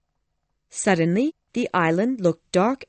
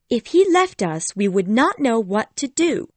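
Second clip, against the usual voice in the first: worried Wendy; 4 semitones higher, 3 dB louder than usual. Acted. Wendy worried to her brothers.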